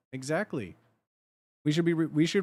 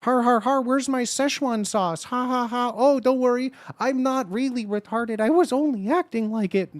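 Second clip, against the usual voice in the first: dopey mock voice; 8 semitones higher, 6 dB louder than usual. Streamer parodying a troll's excuse, higher, louder dopey voice. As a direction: ham up a dim-witted troll laughing at himself.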